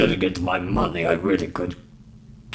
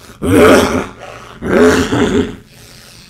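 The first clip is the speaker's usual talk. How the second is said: wheezy laugh; 6 dB louder than usual. Acted. Wheezing laugh after the line.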